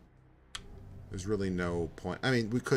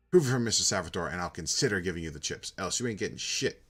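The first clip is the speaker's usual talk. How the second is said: put-on defiant old man; 3 dB louder than usual. Gramps defies the collector.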